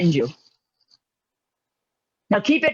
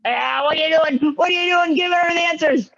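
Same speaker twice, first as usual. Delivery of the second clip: raised, higher-pitched playful telling-off; mock scolding; 4 semitones higher than usual. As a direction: pretend outrage at someone feeding answers. Mock scolding for giving answers.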